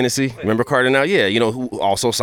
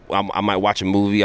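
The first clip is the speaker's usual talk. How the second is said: ordinary talk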